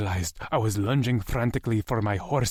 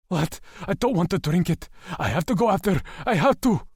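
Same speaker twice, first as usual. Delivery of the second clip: desperate refusal; 9 semitones higher, 3 dB louder than usual. A narrator's reading. Lex refusing, rising desperation.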